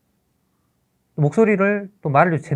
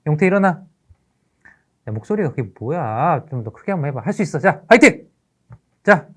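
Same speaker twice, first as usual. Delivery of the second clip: raised teacher voice, a touch exasperated; mildly frustrated; 4 semitones higher, 7 dB louder than usual. Acted. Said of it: "가슴이 좀 답답함이 올라왔어요".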